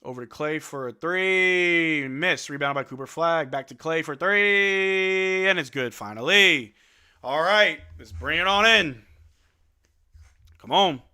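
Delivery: loud, drawn-out hype call; excited cheering. Real, not acted. Fan hyping his team's three-pointer, loud and stretched out. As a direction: cheer the shot home loudly.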